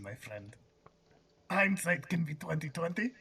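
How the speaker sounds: a hint of a Russian accent; Russian accent attempt. The speaker with a loose Russian accent. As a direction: try a Russian accent, half-heartedly. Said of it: "was trying to do a Russian accent".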